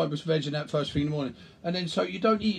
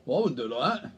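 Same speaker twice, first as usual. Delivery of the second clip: smug critic. Pretend. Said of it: "I lean over and I go".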